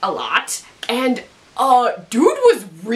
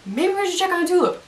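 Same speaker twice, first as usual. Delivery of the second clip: hinting; 8 semitones higher than usual. Retold or imitated. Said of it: "like, hinting and hinting".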